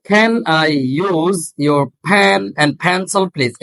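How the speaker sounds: very slow, deliberate reading with breathy stops; slow drill. Shown as a demonstration. Teacher slowly modelling a question for students. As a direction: read it slowly, puffing each stop. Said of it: "your না বলে আমরা আরটা বাদ দিচ্ছি".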